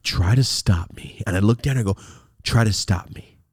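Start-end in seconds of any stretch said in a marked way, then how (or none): 0.0-1.2 calm dare. Retold or imitated. Low dare to mother. 2.4-3.4 calm dare. Retold or imitated. Low dare to mother.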